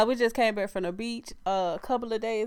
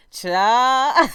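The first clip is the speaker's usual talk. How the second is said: cracking up; 4 dB louder than usual. Real, not acted. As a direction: lose it laughing at the shoe size. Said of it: "y'all know I get tickled".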